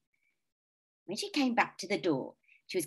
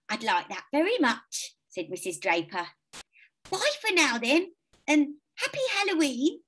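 put-on higher, gentle old lady voice; kindly old lady; 10 semitones higher, 4 dB louder than usual. A narrator's reading. Old lady offering sweets to children, higher and kindly. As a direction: sound like a sweet lonely old neighbour.

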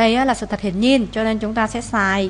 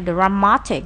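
"dramatic" stressed on MAT; second-syllable stress; slower than usual. Shown as a demonstration. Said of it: "nhấn âm hai".

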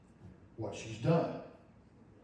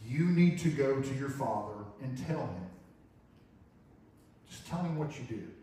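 comforting. Retold or imitated. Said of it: "trying to comfort her".

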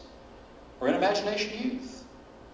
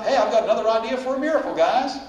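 mock eager pitch; 3 semitones higher, 5 dB louder than usual. Mock disciple pitching an idea.

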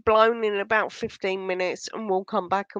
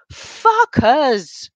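louder, higher angry swear; loud, fuming outburst; angry cursing; 4 semitones higher, 8 dB louder than usual. Real, not acted. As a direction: spit out the curse in real anger. Cursing the media while fuming.

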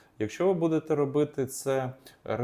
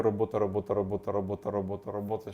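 quick, steady repeating of «робота», no breaks; rapid repetition; faster than usual. Shown as a demonstration. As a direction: say the word over and over without pauses. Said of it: "коли ви швиденько ви вимовляєте".

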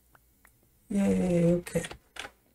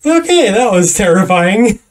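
shaken voice; 6 dB louder than usual. Real, not acted. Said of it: "hear the terror in my voice".

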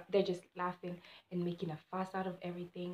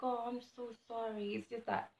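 soft, higher-pitched retold apology; apologetic; 4 semitones higher, 4 dB quieter than usual. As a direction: plead softly with an upset friend. Retold apology to upset friend.

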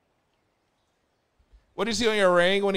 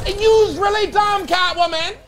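squeaky high taunt; high mocking voice; 14 semitones higher, 7 dB louder than usual. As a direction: tease in a high voice. Mock high taunt to viewer.

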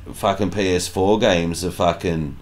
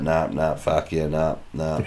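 mock mate's reply; 7 semitones lower, 9 dB quieter than usual. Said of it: "And he's like".

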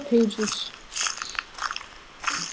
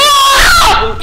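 high laughing scream; scream into laughter; 11 semitones higher, 5 dB louder than usual. Real, not acted. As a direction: shriek then laugh helplessly. Scared by friend, laughing scream.

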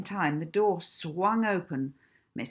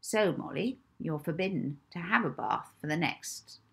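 spiteful matron; 2 semitones higher, 4 dB louder than usual. Acted. Matron lecturing the orphan.

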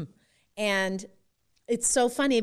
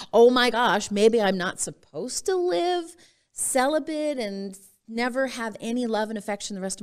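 the penny drops, out loud; startled wonder rising in pitch; sudden realization; 4 semitones higher, 5 dB louder than usual. Real, not acted.

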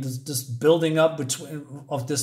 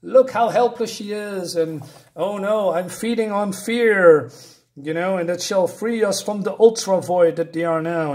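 mock villain gloat; 2 semitones higher than usual. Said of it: "And he says".

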